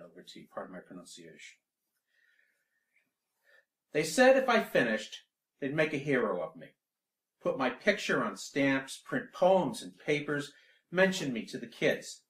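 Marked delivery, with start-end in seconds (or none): 3.9-12.2 projected, lifted poem reading; poetry recitation. Acted. Poet begins Stakhanovite over tea for the audience, declaimed. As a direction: declaim it to the room, starting high and loud.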